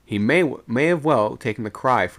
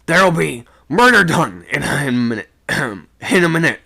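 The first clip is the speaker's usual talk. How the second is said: loud, alarmed warning in bursts; high, urgent holler; breathless shout; 5 semitones higher, 9 dB louder than usual. A narrator's reading. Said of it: "catching his breath between the words".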